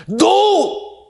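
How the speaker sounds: sharp, high shouted refusal; defiant no. Acted. Pharaoh refusing to let them go, shouted no. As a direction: bark it out.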